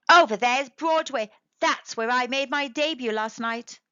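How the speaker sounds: loud, proud brag; boastful. Acted. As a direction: show off to the birds. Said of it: "boasting to birds".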